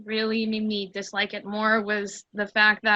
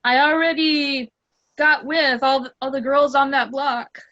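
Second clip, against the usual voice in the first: loud, high boastful brag; bragging tough guy; 4 semitones higher, 5 dB louder than usual. Retold or imitated. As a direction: brag like a cocky player. Mocking the bragging character.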